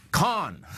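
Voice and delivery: corn said as "cahn", the r dropped; own regional accent. Real, not acted. Host on the grain report lets his accent slip on corn, dropped r. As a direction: drop the r in corn so it sounds like "cahn". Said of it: "that accent of mine is wicked".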